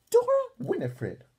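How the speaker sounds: high, loud stern call of the full name; scolding. Acted. Grandma scolding D W for faking, loud and high. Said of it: "she scolded".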